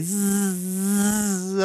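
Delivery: very long, sustained insect buzz; horsefly buzzing. A narrator's reading. Storyteller's Loki buzzes from the ceiling, sniggering horsefly. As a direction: buzz away like a fly on the ceiling. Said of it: "ronzava attaccato al soffitto".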